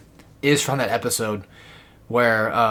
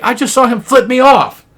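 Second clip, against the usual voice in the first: high, loud retold outrage; indignant cartoon alien; 11 semitones higher, 8 dB louder than usual. Plutonian to Emily about a passing insult, loudly indignant. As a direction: protest it loudly, pitched well up. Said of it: "But anyway, he's like".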